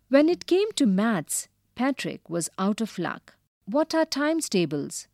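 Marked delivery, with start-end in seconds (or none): 3.6-5.1 high shriek of alarm. Acted. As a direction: shriek it like a panicked elf. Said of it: "the elf shrieked".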